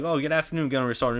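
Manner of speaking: high, chirpy mock salute to a superior; overeager recruit greeting. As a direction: pipe it up like an eager recruit. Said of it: "you see another one be like".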